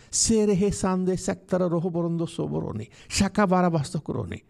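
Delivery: fervent glossolalia, gathering force; praying in tongues. Real, not acted. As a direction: pour out ecstatic prayer without a break. Prays in tongues.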